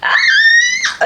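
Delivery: high-pitched squeal with a laugh; excited squeal. Real, not acted. Woman about to read her friends' letters, excited squeal. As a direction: let out a giddy high squeal. Dreads crying while reading letters.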